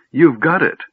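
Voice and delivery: high, loud upset accusation; screech. A narrator's reading. Gnome confronting the mage over the orb, screeching. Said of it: "he screeched".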